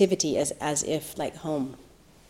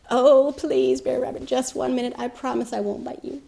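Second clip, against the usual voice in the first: begging snake; 8 semitones higher than usual. Acted. Snake pleads with Brer Rabbit for one minute, high and wheedling.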